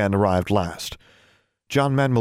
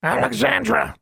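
high, cooing bird voice; cooing raven. A narrator's reading. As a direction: coo the name like a raven. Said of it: "and cooed".

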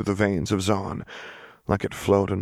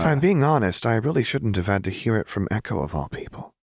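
bright and cheery; 4 semitones higher, faster than usual. Acted. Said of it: "bright and cheery tone".

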